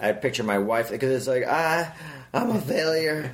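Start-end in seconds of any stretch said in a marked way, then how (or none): 1.5-3.3 higher-pitched, hammed-up wail of self-pity; lightly played despairing whine; mock tearful confession. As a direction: act out a blubbering confession, half in jest. Acting out tearful confession scene.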